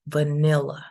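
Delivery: "vanilla" with the middle syllable stressed; stress on second syllable. Shown as a demonstration. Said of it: "the stress goes in the second one".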